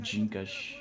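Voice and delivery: "Jinkash", the D as J and final S as SH; Brazilian pronunciation. Shown as a demonstration. Speaker trying the word for a friend, "Jinkash" ending in SH. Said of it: "S's at end of words".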